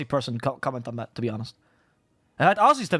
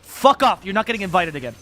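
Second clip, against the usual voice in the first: much higher, louder blunt Russian-style dismissal; mock blunt retort; 3 semitones higher, 5 dB louder than usual. Russian org dismissing the fake-nice caster, loud mock retort. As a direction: snap it out like an offended org.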